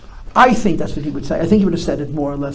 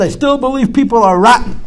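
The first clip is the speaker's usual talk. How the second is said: cynical adult; 8 semitones higher, 7 dB louder than usual. Retold or imitated. Imagined grown-up cynic quote.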